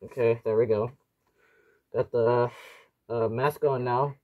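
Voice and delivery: muffled through a gas mask; speaking through a tight respirator mask. Real, not acted. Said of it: "You should be able to hear me, uh, quite clearly through the, uh, voice diaphragm".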